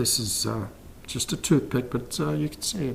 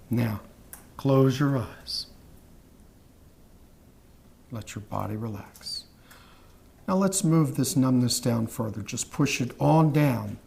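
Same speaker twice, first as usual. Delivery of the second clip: hypnotic induction. Acted. Hypnotist guiding a trance.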